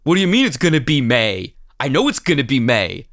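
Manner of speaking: mock indignation; hammed-up New York irritation; angry Paul Sorvino. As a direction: play a man insulted by a lyric. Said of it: "extremely angry about everything all the time".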